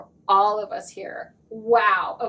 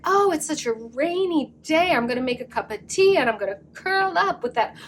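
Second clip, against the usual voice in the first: mimicking listeners; 3 semitones higher than usual. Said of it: "mimicking your voice".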